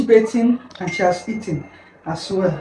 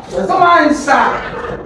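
Good morning sung out high and loud; singsong greeting; 8 semitones higher, 5 dB louder, much slower than usual. Shown as a demonstration. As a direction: model it bright and high for the child. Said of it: "That's not good morning".

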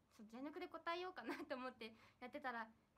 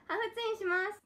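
laughing; 5 semitones higher, 15 dB louder than usual. Real, not acted.

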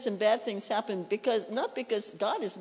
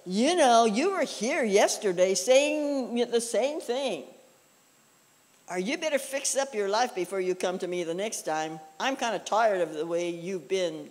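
a louder, fault-picking scolding voice; nagging scold; 4 dB louder than usual. Pretend. Preacher voicing a faultfinding God, nagging scold. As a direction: wag a finger at the same old sinner.

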